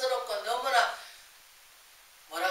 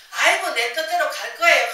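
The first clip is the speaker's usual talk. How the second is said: put-on higher, louder, whiny child insisting on own way; stubborn child; 6 semitones higher, 8 dB louder than usual. Child refuses parent's hand, higher, louder and stubborn. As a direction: play the headstrong kid refusing help.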